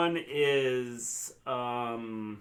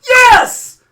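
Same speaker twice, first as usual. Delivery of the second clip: high, loud triumphant yelling; real jubilant outburst; excited shouting; 19 dB louder than usual. Real, not acted. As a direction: shout it, thrilled to be understood. Thrilled viewer recognised his impression.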